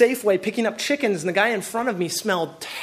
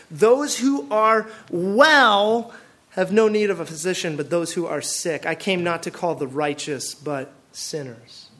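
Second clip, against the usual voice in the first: Jesus quoted gently; 4 semitones lower than usual. Retold or imitated. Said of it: "he said to them".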